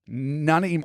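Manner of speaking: "Nanaimo" said syllable by syllable; "Nanaimo" broken into careful syllables. Shown as a demonstration. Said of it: "I just had to break it down into syllables".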